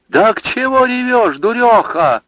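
high, loud scolding cry; old woman shouting at a crying girl; sudden shout. Acted. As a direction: snap her out of her tears. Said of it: "вдруг закричала Марина".

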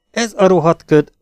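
grumbling curse. A narrator's reading. Ralph cursing the fog while driving, angry grumble. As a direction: spit out the curse in irritation.

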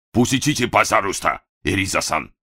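put-on polite request, Japanese accent; японский акцент. A narrator's reading. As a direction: gently ask her to move, Japanese accent. Masa asks gently.

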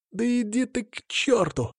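high, slow furious cry; high-pitched yell. Acted. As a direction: fling it at him in a high voice. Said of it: "её высокий голос".

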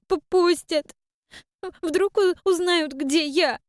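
put-on high girl's voice, stuttering and sniffling through tears; a scared child blurting fears between sobs; girl stammers out what she overheard, still sobbing. A narrator's reading. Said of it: "всхлипывая и продолжая заикаться от слёз, быстро затараторила".

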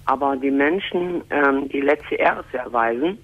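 speaking with a cold; talking through a blocked nose; stuffy nose. Real, not acted. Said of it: "ich bin ein bisschen erkältet".

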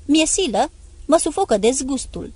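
high, loud disgusted shouting; enraged yell while leaving. Acted. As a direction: roar out his revulsion. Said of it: "A început să urle iar".

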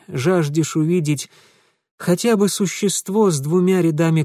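tired, drawn-out sarcasm; weary drawl. Acted. Mitya wearily mocking Ingvar. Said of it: "устало протянул".

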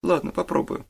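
put-on a touch of reluctant gloom in a boy's voice; sullen boy. A narrator's reading. Boy grudgingly agrees to the detective's questions, sullen. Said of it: "также хмуро произнёс Олег".

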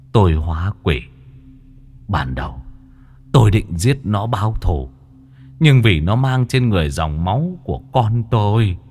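a hint of a frail old man pleading; lightly voiced old ghost. Old ghost telling the exorcist how he died, pleading. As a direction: plead your wrong to the exorcist.

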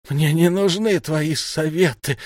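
put-on an old wizard rejecting advice with contempt; spat out. A narrator's reading. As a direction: spit the words back. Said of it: "выплюнул Ирдегус".

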